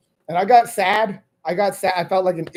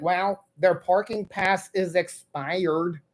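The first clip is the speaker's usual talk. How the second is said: slow, soft mock attendant; 5 dB quieter, much slower than usual. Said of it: "And he was like".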